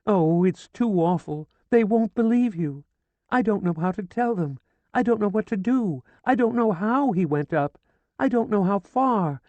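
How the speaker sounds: high, loud keening grief; wailing lament. A narrator's reading. Widow wailing over her dead husband, grieving. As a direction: wail over the body. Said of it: "She pleaded".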